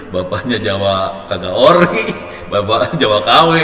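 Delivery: words broken by laughter; laughing while talking. Real, not acted. The teacher laughs while listing his son's mixed roots. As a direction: chuckle through the list.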